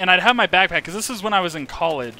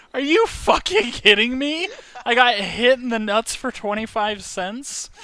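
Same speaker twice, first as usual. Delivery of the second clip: high, laughing, incredulous complaint; mock fury breaking into laughs; laughing outrage; 5 semitones higher than usual. After a quarter tip for getting hit, laughing disbelief.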